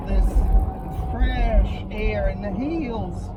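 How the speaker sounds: loud, high, projected over the engine. Real, not acted. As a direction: call it out over the noise of the drive. Talking over engine while driving.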